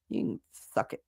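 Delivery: whispered. Real, not acted. Dismissing egg prices.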